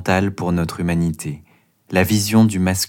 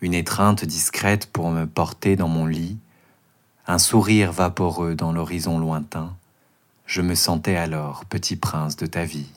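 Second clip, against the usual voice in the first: declaiming a poem. Acted. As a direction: recite it like a stage poem. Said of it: "déclamer une version courte de ce poème".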